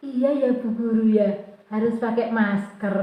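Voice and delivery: soft, slow pupil's reply; murid mengalah. Retold or imitated. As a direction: imitate a child meekly agreeing with teacher. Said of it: "Loh, di mana kesepakatan kelas kemarin?". (suara murid mengiyakan, lirih dan pelan)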